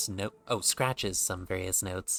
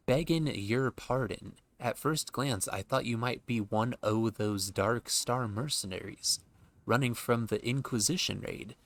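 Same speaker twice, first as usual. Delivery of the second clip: folksy NPC voice; 2 semitones higher than usual. Acted. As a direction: beg pardon like a humble villager. Apologetic NPC dialect.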